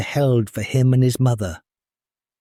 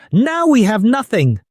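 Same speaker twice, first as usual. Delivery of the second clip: higher, angry despairing cry; despairing anger; 9 semitones higher, 3 dB louder than usual. Acted. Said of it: "in a fit of rage".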